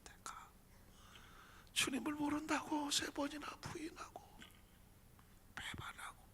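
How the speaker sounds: tearful whisper, breaking; weeping whisper. Acted. Peter confessing his denial, whispered through tears. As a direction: sob it out under the breath. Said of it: "통곡을 하죠".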